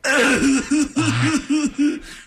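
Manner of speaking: high hammed-up sobs; mock sobbing. Fan after the photo with his heroes, mock sobbing. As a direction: sob in exaggerated fake tears. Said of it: "was of somebody crying".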